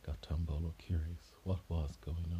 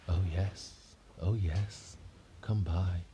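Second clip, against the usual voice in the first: louder airy ghostly invitation; louder ghost lady beckoning; 5 dB louder, much slower than usual. Acted. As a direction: call it like a ghost from far off. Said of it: "talking like a ghost".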